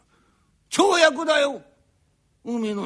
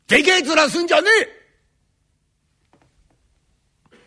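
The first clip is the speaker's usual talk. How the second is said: loud, high yell of rebuke; angry shout; 7 semitones higher, 7 dB louder than usual. Acted. Landlord shouting down the carpenter, angry shout. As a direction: slam him down. Quarrel, landlord tells him off.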